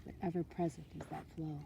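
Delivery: unhurried meditation voice with long pauses; guided meditation. Acted. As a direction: talk them gently through it, letting each phrase settle. Leads a water meditation.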